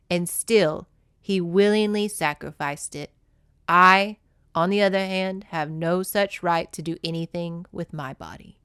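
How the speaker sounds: steady, even book-reading voice; story reading. Acted. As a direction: read the passage like an audiobook. Reads book passages aloud.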